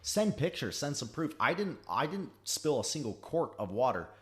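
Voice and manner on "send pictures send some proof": mocking demand. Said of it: "And I was like".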